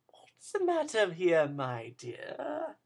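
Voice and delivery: put-on hushed, sly old man's whisper; a wheedling old villain whispering; Fagin's whisper. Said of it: "said Fagin".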